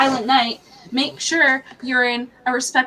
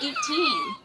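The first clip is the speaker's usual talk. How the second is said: high squeak. Real, not acted. Incredulous outburst.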